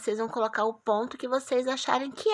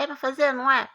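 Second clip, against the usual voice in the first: mimicking student; 3 semitones higher, 5 dB louder than usual. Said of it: "Aí fica perguntando pra tia".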